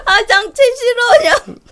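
high whiny nya whimper; fake-cry it, catlike; cutesy nya speak.

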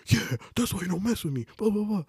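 high-pitched mock bragging; retold gloating. Little brother to the kid he punched, mock boastful. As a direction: imitate a cocky little brother.

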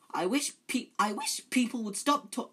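put-on high, loud whiny ghost-girl voice; Myrtle. A narrator's reading. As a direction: try out an upset ghost's voice. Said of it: "I'm trying to do a Myrtle voice".

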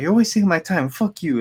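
high-pitched imitation of a fed-up caller; mock angry cursing. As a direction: act out cursing someone off the phone. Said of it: "like, cursing at me".

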